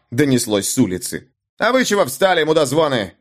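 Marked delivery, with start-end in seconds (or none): 1.6-3.1 angry bandit yelling. Acted. Bandit leader yells at men.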